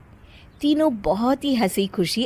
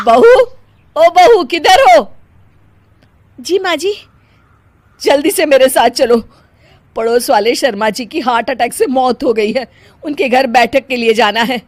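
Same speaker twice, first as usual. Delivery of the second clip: loud, higher urgent saas voice; mother-in-law calling; 5 semitones higher, 9 dB louder than usual. Acted. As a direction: hurry her out of the house. (जल्दी बुलाती सास)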